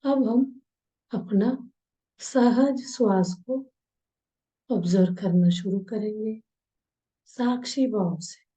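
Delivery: slow breathing guide with long pauses; unhurried meditation instructor's voice; guided meditation. Acted. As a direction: draw out the words, leaving space to breathe.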